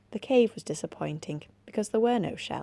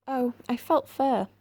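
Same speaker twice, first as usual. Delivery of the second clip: high, louder, slow excited cry; mild teary laugh of discovery; half laughing, half crying; 7 semitones higher, 5 dB louder than usual. A narrator's reading. Girl digging who feels fur, mild laughing sob. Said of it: "half laughing and half crying".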